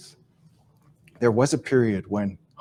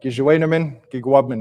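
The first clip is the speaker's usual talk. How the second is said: loud call; 2 semitones higher, 6 dB louder than usual. Retold or imitated. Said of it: "loudly yell, not yell".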